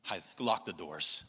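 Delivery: frightened cry to bar the door; mock panic. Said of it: "they're going".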